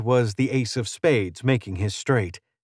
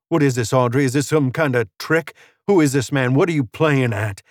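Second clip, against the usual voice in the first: mildly agitated cowboy, slightly raised; suspicious gambler Spence; 3 semitones higher, 4 dB louder than usual. Acted. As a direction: fire off accusing questions.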